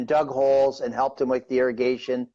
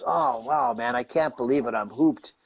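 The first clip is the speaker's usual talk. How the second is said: dismayed groan. Retold or imitated. Injured painter to himself on the ground, retold dismay. Acted dismay after the fall.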